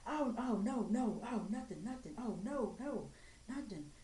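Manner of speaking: singsong, bobbing string of hasty denials; mock backpedalling denial. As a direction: imitate someone wriggling out of a confrontation. Imitates people denying it when confronted.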